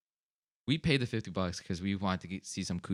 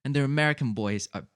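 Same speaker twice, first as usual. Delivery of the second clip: gushing imitation of an English girl; mock English accent; 3 semitones higher, 4 dB louder than usual. English stripper talks up England to her customer, gushing mock English accent. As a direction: gush along in a put-on English accent. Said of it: "like, this English accent".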